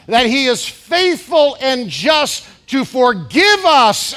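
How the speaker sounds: slow, loud preaching with rising fervor. Acted. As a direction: preach it out to the congregation, slowly. Preaching at full force.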